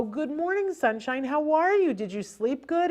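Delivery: high, sing-song gushing greeting; overexcited parent flooding a child with words; gushing chatter. Acted. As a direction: run on effusively, pitched well up. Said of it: "we have a tendency to go".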